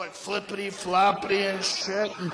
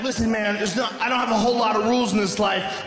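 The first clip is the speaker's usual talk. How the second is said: losing it; faster than usual. Acted. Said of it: "I lost it".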